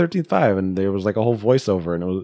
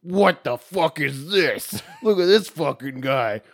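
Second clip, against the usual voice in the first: mocking laughing voice; 9 semitones higher, slower than usual. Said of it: "he's just like".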